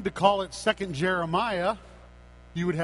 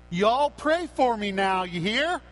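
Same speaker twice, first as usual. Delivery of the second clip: put-on southern accent; 3 semitones higher, 4 dB louder than usual. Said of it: "in his charming southern accent".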